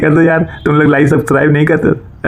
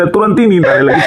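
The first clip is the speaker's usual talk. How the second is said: chuckling; 4 semitones higher than usual. Real, not acted. Joke about sleep coming at once.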